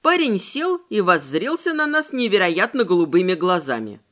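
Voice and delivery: ordinary delivery, nothing marked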